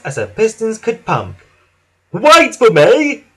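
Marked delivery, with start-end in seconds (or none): 2.1-3.2 cheerful high, loud call; Whiff. A narrator's reading. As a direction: call after them cheerfully, stretched out. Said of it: "whistled Whiff cheerfully".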